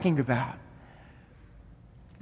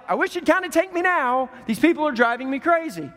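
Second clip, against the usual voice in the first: mock weary exasperation; 4 semitones higher, faster than usual. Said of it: "Paul's like".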